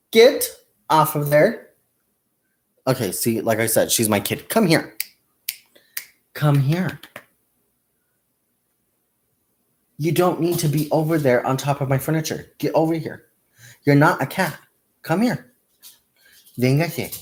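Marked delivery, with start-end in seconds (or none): 0.1-1.7 loud high snap at the pet; yelling get off at the pet; sharp call-out. Real, not acted. Scolding pet off the furniture. 4.5-17.1 coaxing call. Real, not acted. Calling the pet over.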